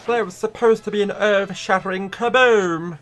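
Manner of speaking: lightly voiced Martian; weak Marvin the Martian impression. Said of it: "I cannot do a Marvin the Martian impression".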